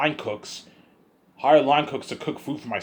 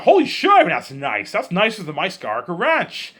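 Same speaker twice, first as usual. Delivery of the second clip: mock amazed George; 4 semitones higher, 3 dB louder than usual. George amazed by land picture.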